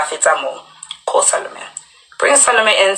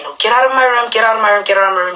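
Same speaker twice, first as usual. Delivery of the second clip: mild mock yell, slightly raised pitch; retold scream; 4 semitones higher than usual. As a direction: imitate her screaming without really shouting. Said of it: "She's screaming".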